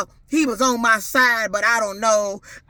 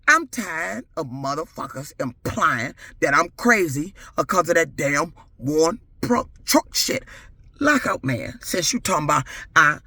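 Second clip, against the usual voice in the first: other personality voice; 8 semitones lower than usual. Real, not acted. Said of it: "you meeting the other personality".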